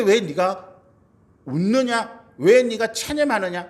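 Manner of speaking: strong rebuke. Acted. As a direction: demand an answer, pitched high and pressing. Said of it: "강하신 책망입니다". (높고 강하게 꾸짖듯)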